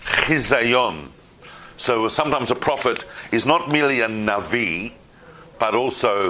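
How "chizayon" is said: "chizayon" with a throaty ch at the start; guttural chet. Shown as a demonstration. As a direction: open "chizayon" on a raspy chet. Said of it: "that's a chet".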